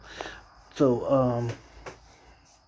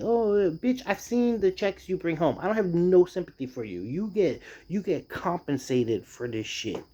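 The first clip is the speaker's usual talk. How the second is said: mock angry retort; 5 semitones higher than usual. Imagined retort to the boss.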